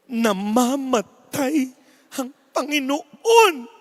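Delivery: slow, solemn announcer's lament; slow, grave Holy Week announcer; dramatic announcer. Retold or imitated. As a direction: draw out each word to wring tears. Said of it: "Sabi nung announcer".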